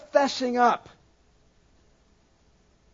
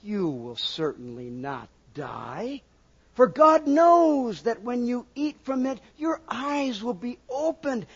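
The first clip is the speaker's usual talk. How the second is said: tempting serpent; 3 semitones higher than usual. Acted. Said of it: "The serpent said".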